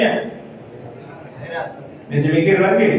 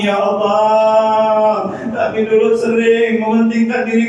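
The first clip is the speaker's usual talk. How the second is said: heartfelt closing prayer. Acted. Preacher leading the congregation in closing prayer, chanted supplication. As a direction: pray aloud for the congregation, half-sung and rising.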